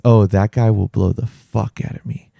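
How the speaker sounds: put-on quoting "blow the fuck out of me" in a mild Russian accent; a hint of Russian accent on "blow the fuck out of me"; light Russian accent. Host with a Russian accent slips up, light Russian accent. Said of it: "he has an accent a little bit".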